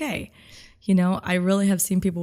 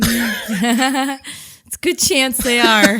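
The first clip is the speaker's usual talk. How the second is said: laughing; 4 semitones higher, 6 dB louder, much slower than usual. Real, not acted. Laughing at volleyball joke.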